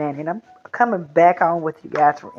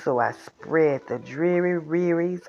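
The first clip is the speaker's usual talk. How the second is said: mope through it like a sulky fish; gloomy pout fish; 2 semitones lower, slower than usual. Acted. Nanny reading to the littles, voicing a gloomy fish.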